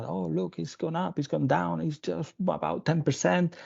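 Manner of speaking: mildly excited. Retold or imitated. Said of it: "we were all excited here".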